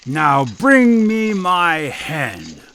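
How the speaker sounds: slow, commanding giant; a slow, bossy giant calling for his hen; giant ordering. Acted. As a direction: lay down the order slowly. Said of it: "he ordered".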